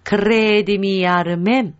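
"クレーディミアルメン" with a trilled R and long first vowel; firmly rolled R. Shown as a demonstration. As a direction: roll the R in "クレー", demonstrating carefully. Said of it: "しっかり巻きます".

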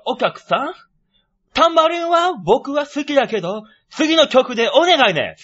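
put-on lightly Asian-accented foreign frontman; a band's singer impression. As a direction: address the crowd in a mock Asian accent. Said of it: "あるバンドのボーカルのモノマネ".

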